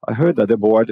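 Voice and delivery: HEARD THAT THE run together, final T swallowed; connected-speech demo of THAT THE; linked consonants. Shown as a demonstration. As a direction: link THAT straight into THE without releasing the T. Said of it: "a mesma coisa que vai acontecer com esse T".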